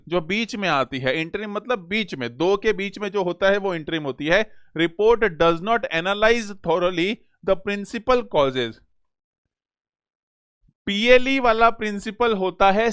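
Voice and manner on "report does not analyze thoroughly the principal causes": reads the sentence out very slowly; unhurried reading, word by word; slow dictation reading. Shown as a demonstration. Teacher reading an exam question aloud, very slow.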